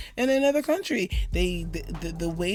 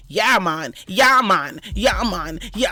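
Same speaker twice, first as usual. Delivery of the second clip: low, laid-back "yeah, man" impression; mock stoner drawl; 5 semitones lower, 4 dB louder, slower than usual. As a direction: lazily imitate the stereotype. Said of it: "I have to deal with everyone saying".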